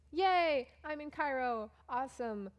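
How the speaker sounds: high, loud sarcastic yay; mock cheer. Traveler mocking her own hopeful arrival, mock cheer. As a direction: fake excitement about the trip.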